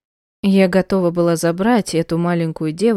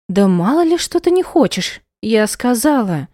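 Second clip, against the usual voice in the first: louder, higher angry retort; angry snap; 4 semitones higher, 3 dB louder than usual. Acted. Mother cutting off her daughter, angry. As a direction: snap back at the child.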